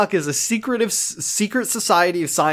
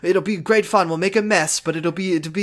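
slightly raised, eager RA patter; chummy RA; 3 semitones higher than usual. Retold or imitated. Cassidy proposing fun in the quad, chummy RA. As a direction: pitch dorm fun like an overkeen advisor. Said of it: "talks to Mark like he's his fucking R A".

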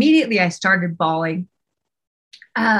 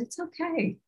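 calm him saying it is okay; gentle reassurance; 3 semitones higher, 5 dB quieter than usual. Retold or imitated. Husband softly reassuring his sobbing wife, tender. Husband comforting her after confession.

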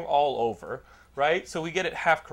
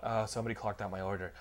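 waitress excuse; 6 semitones lower, 9 dB quieter, faster than usual. Retold or imitated. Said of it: "She then goes on to".

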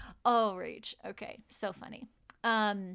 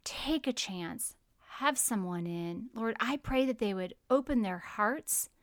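prayer; 3 dB quieter than usual. Acted. Prayer continues.

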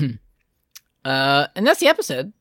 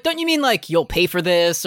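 mock villain line; 2 semitones higher than usual. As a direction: play a cartoon villain's threat.

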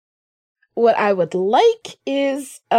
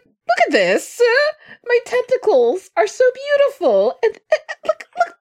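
vain creature voice; 12 semitones higher than usual. Acted. Voicing a vain tentacled creature.

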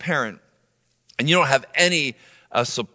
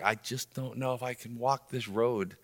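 weary despair; 5 semitones lower, 11 dB quieter than usual. Retold or imitated. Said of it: "You're like".

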